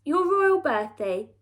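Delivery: slither the compliments out; creepy fawning painter. Acted. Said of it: "creeped the royal portrait painter".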